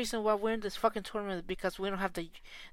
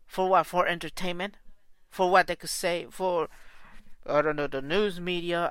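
angry shouting; 6 dB louder than usual. Real, not acted. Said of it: "I'm fucking pissed right now".

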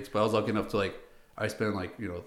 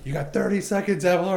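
higher, louder mock barked order; impatient officer; 9 semitones higher, 6 dB louder than usual. Officer pressuring the corporal to clear airspace, mock shout. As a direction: rush him like an impatient officer.

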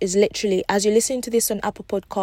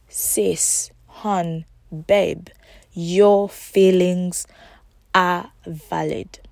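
tender reassurance; much slower than usual. Acted. Soothing a listener, slow.

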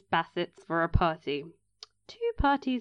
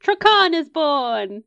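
excited; 6 semitones higher, 6 dB louder, slower than usual. Real, not acted. Announcing the ship.

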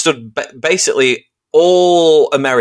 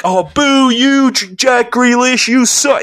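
high, slow feeble booing; mock polite boo; 10 semitones higher, much slower than usual. Explaining football crowds to Americans, slow mock-feeble boo. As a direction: boo half-heartedly, too polite. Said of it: "it isn't like".

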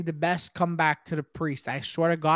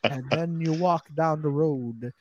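mock preacher; 5 dB louder, much slower than usual. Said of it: "He goes".

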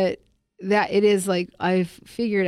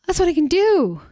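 mock protest; 10 semitones higher, 5 dB louder than usual. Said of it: "it's just like".

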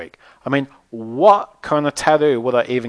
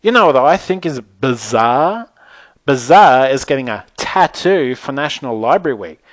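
a louder, mild mock yell; exasperated yell; 6 dB louder than usual. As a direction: vent the frustration, half-shouted. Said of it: "yelled at them both".

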